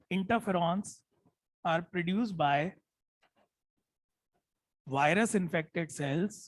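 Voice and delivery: very slow, word by word for note-taking; slow dictation. Shown as a demonstration. Teacher dictating notes to class, very slow. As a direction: spell it out slowly so students can write. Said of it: "मैं जानबूझ के धीरे बोल रहा हूँ".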